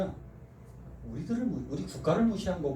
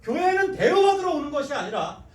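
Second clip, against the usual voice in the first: loud, high impassioned sermon; full-force revival preaching; fiery preaching; 8 semitones higher, 6 dB louder than usual. Acted. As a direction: preach it hard to the pews.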